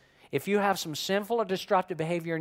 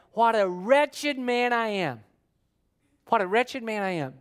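wretched lament; 3 semitones higher than usual. Acted. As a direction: stretch out the lament, then ease off. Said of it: "He said".

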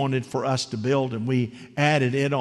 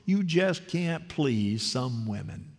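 mumbled; 6 dB quieter, slower than usual. Retold or imitated. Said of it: "he mumbles".

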